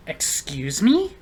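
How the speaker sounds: slow, breathless "Excuse me?"; indignant whisper. Retold or imitated. Shocked customer answers the man who called her rude, whispered. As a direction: whisper it in offended disbelief.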